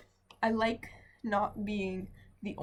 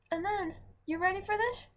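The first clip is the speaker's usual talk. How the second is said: dramatic teaser; 10 semitones higher than usual. Real, not acted. Teasing build-up to complaint.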